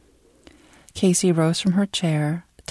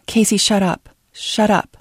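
urgent hush; 4 semitones higher, 4 dB louder than usual. Acted. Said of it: "Leah said in Korean".

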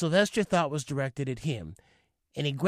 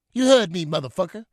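angry father; 3 semitones higher, 6 dB louder than usual. Retold or imitated. Father yelling at son.

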